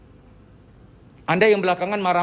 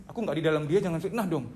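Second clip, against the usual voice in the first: soft, protesting mock devil; soft-spoken devil; 6 dB quieter than usual. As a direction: plead innocence quietly as the devil. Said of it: "Setannya ngomong". (setan membela diri dengan pelan)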